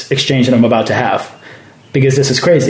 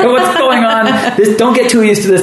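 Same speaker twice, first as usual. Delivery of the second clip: high-pitched, amused incredulity; mock disbelief; 9 semitones higher than usual. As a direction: act out marvelling with friends, pitched up high. Acted amazed reaction among friends.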